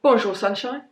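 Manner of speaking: slight mock-Cockney lilt; bad Cockney accent. Shown as a demonstration. Vlogger showing how the product name must be said, bad Cockney. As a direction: say it in a lightly faked Cockney. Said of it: "a slight bad Cockney accent".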